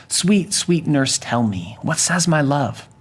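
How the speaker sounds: slow, drawn-out sweet-talking; acted pleading, stretched out; coaxing plea. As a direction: wheedle slowly for the news. Juliet coaxes the teasing nurse.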